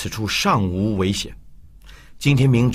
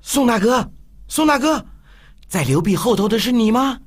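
playful teasing call; 11 semitones higher than usual. Acted. Tianming teasing in the dark.

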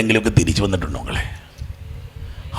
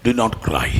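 gentle plea; 2 semitones lower, 8 dB quieter, much slower than usual. Acted. Preacher comforting grieving congregation.

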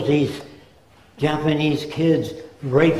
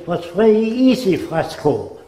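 put-on Ernst Udet's German-accented English; 4 semitones higher than usual. Ernst Udet answers his employee in a German accent. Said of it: "That's the way he spoke".

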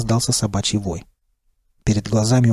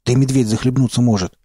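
buzzing drone; 2 semitones higher than usual. Acted. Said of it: "прожужжал первый голос".

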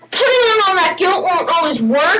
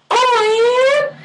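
put-on high, slow surprised girl voice; girl's voice; 9 semitones higher, slower than usual. Girl answers a compliment, high and slow. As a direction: play the flattered girl, high and drawn out. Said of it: "they'll be like".

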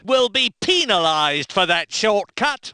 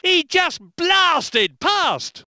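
excited call; 7 semitones higher, much slower than usual. Acted. Commentator calling an overtake.

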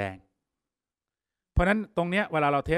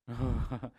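soft chuckle; 3 dB quieter than usual. Real, not acted. Chuckles at doing servers by hand.

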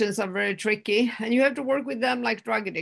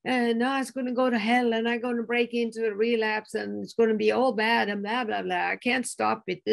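retold panic; 2 semitones higher than usual. Recalling her old relapse fears, mildly acted panic. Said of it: "in the old days I panicked".

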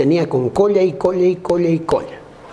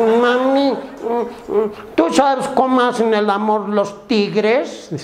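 higher, lightly voiced little kid; child asking mommy; 6 semitones higher, much slower than usual. Child asks mother about tigers, lightly mimicked kid. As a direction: draw the question out like a curious child.

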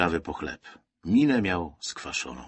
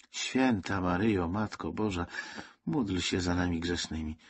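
softer, murmured Hail Mary; lowered, pleading prayer; praying; 6 dB quieter than usual. A narrator's reading. Woman resumes praying on the crowded ship, softly prayerful. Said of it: "zaczęła się modlić".

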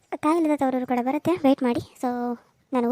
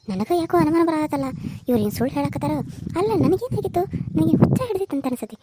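scheming daughter-in-law. Acted. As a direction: grumble to yourself about the old woman.

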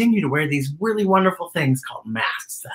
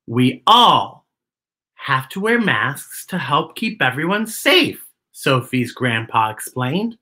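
put-on reading to children. Host reading a picture book to kids, gentle read-aloud. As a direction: read it like storytime for little ones.

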